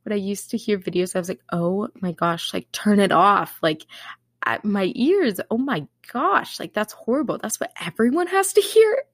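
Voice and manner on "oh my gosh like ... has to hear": dramatized disbelief, pitched up on the last line; retold horror. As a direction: imitate cringing at your own recording. Retold horror at own recordings.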